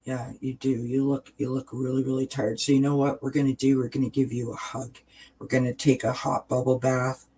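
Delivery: soft, kind words to yourself in the mirror; hushed, caring comfort; gentle self-talk. Shown as a demonstration. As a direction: reassure her softly like a friend. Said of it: "Say this".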